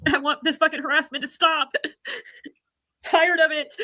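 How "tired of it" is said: laughing through tears; crying. Real, not acted. Streamer tells trolls she is tired, crying. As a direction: break into tears on the words. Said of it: "pure, raw passion and emotion".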